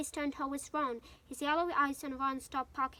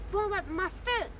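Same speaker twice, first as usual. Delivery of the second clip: higher, louder pained complaint; pained gasp; 5 semitones higher, 5 dB louder than usual. A narrator's reading. Hermione scolds Ron for treading on her, pained outcry. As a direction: scold him, voice jumping up. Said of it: "gasped Hermione".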